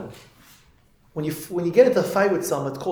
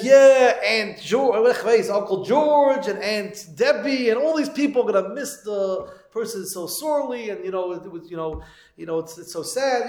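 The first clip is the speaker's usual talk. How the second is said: higher-pitched, drawn-out rollcall of relatives; a mock funeral speech, voice raised in pitch; lightly acted eulogy; 4 semitones higher than usual. New rabbi addressing mourners with a list of names, lightly acted eulogy.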